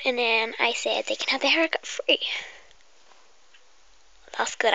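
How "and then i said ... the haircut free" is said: whisper. Acted. Whispering to the viewer before the pretend hairdresser game. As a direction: breathe every word like an ASMR intro.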